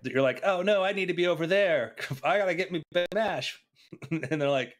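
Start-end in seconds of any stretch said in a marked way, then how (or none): 0.4-3.6 higher, lightly put-on sailor voice; mock panic over missing dinner; mock-desperate sailor. Sailor needing to reach the other ship, playful mock urgency.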